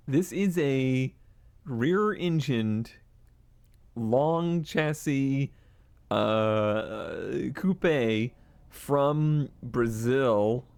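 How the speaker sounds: slow, deliberate pitch; slow sales pitch. Acted. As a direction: lay it out slowly like a salesman. Pitching a car option.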